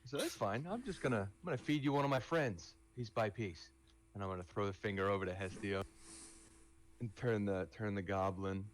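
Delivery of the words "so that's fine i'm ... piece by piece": gleeful threat. Acted. Threatening to feed goblin to friends.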